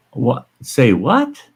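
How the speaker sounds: can't believe what she heard; incredulous. Real, not acted. Incredulous at being dismissed.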